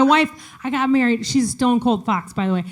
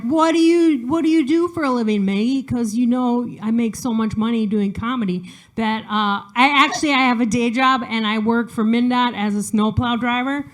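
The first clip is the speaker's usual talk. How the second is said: mock audience voice. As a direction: poke fun at the asker. Audience question voiced mockingly.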